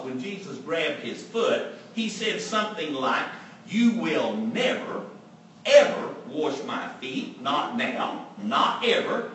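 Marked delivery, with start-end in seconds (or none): 3.7-9.3 adamant refusal. Retold or imitated. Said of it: "Adamantly saying".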